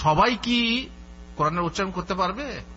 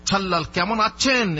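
teasing, a little louder, with সাল্লাল said as chhallal; mocking imitation; 3 semitones higher, 4 dB louder than usual. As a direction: poke fun at the ছ accent. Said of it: "অনেকে ব্যঙ্গ করে".

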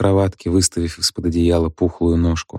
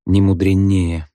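harsh; slower than usual. A narrator's reading. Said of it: "жёстко".

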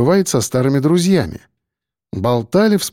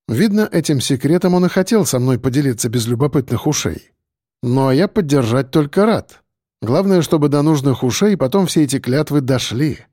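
usual speaking voice

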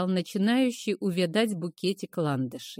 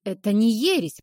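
rasping, louder protest; hoarse angry cry; 4 dB louder than usual. Acted. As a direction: croak it out defiantly. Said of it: "прохрипела Ким".

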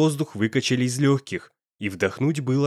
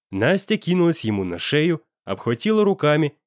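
ordinary delivery

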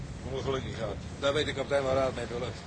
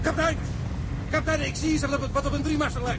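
excited call; 9 semitones higher than usual. Acted. Sailor spots ship, calls captain.

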